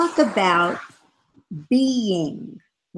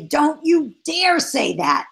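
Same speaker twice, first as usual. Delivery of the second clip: mock scolding; 6 semitones higher than usual. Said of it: "and you say".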